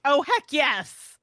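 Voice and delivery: loud, drawn-out delighted exclamation; gleeful cheer. Acted. Host voicing a thrilled pet owner, gleeful cheer. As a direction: cheer it high and slow, hammed-up.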